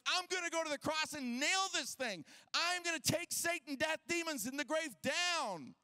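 triumphant declaration. Retold or imitated. Jesus tells Moses and Elijah his plan, acted triumphant declaration. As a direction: declare a mission, drawing out the last words.

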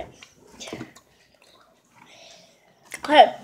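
chewing while talking; mouth full of candy. Real, not acted. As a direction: lips pursed around candy. Seen 0: Candy put in mouth at -3; pursed, working mouth throughout labelled words.

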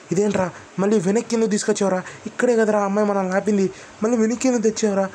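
high, fast panicked questions at a friend; alarmed yell. Retold or imitated. Narrator yelling at his driving friend, alarmed and fast. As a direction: shout at him in rising panic.

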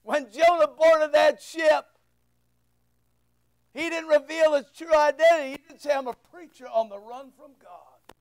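strong preaching voice, rising and falling. Acted. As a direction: preach the Jonah story to the congregation. Preacher telling Jonah story.

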